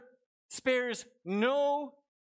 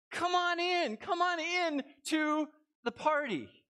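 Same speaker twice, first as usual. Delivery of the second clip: higher, inviting call to come in; coaxing father; 7 semitones higher than usual. Retold or imitated. Father urging his sulking son, higher and inviting. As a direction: coax the son inside, arms open. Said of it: "the father came out and said".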